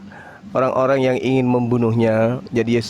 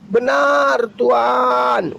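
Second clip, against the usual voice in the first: submissive woman voice; 9 semitones higher, much slower than usual. Retold or imitated. Voicing woman agreeing.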